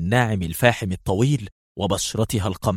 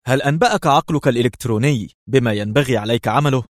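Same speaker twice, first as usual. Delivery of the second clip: sarcastic; 3 semitones higher, 3 dB louder than usual. Acted. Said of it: "وقال ساخرا".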